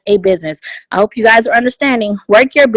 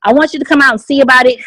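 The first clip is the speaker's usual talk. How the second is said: enthusiastic; 2 semitones higher than usual. Shown as a demonstration. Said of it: "invite somebody ... with enthusiasm and excitement".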